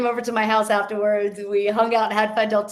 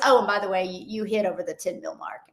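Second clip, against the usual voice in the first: nonchalant; 3 semitones lower, faster than usual. Retold or imitated. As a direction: imitate an accountant casually dropping big news. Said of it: "then nonchalantly he goes".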